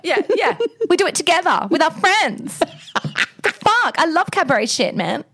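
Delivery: high, laughing mock bloke voice, hammed up; mock boorish bloke. Mocking what the bouncer heard, hammed-up high bloke voice. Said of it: "that's what he's hearing".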